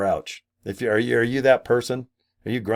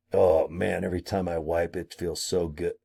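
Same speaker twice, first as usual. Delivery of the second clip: low, soft, dreamy sigh of pleasure; hushed mock-sensual aside; blissful murmur; 7 semitones lower, 7 dB quieter than usual. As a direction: sink into mock bliss, much softer and lower. Blissful aside about wipes.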